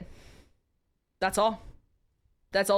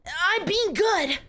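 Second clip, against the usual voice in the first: slow breathy reply; 6 semitones higher, much slower than usual. Acted. Heroine's reply in the story.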